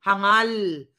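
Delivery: scornful insult. Real, not acted. Insulting politician's son.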